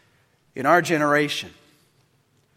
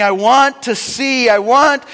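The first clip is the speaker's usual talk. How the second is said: pleading cry; 3 semitones higher, 5 dB louder than usual. Retold or imitated. Blind beggar pleading with Jesus to see. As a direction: beg for sight. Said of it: "screaming out".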